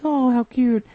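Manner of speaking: high, slow gushing coo; high slow delighted coo; melting over cute. Retold or imitated. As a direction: melt over something adorable. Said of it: "she just completely melts".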